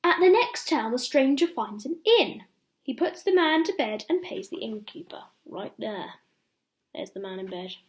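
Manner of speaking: lively read-aloud for little ones; bedtime story reading. Acted. Ben reading a bedtime story to children, lively storytelling. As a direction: tell it like a picture book at bedtime.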